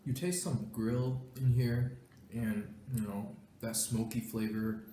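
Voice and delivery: slow, talking through a mouthful; chewing while describing slowly; mouth full. Real, not acted. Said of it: "talking with my mouth full".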